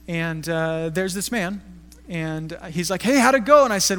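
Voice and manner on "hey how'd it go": put-on higher, louder friendly old-man hello; lightly voiced old man calling from inside; imitating the old man. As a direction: call out cheerfully like the old man. Old pastor greeting the helper.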